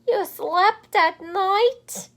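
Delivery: high, loud and slow gasp; slow high gasping shock. Acted. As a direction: gasp it in disbelief. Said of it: "gasped another".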